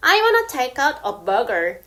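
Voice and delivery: I wanna take out a burger, spoken very slowly; careful teacher example; slow demo; slow American. Shown as a demonstration. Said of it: "이렇게 쓸 수 있고".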